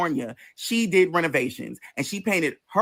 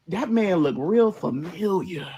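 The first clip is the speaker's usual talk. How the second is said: puzzled drawl; slower than usual. Retold or imitated. Puzzling over a man across yard.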